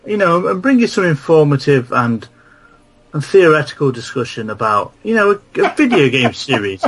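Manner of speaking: high-pitched, affronted rebuke; exasperated comic tirade; indignant rant. Acted. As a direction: tell off a rude letter writer, voice climbing. Mock-offended rant at email writer.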